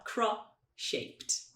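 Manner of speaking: slow "cross-shaped" as cro, then shaped; "cross-shaped" with only SH between the parts; linked sounds. Shown as a demonstration. Teacher breaking down linking, "cross-shaped" as cro-shaped. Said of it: "A gente só fala".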